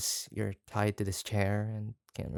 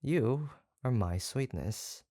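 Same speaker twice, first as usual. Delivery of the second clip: tender; 2 semitones higher, slower than usual. Acted. Tender confession repeated.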